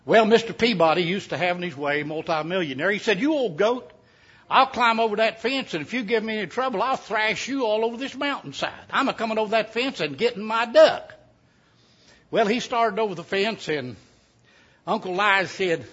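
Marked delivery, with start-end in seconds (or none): 3.2-11.1 higher-pitched, blustering threat; blustering rich man. Retold or imitated. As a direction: puff up like a rich man who won't be told no.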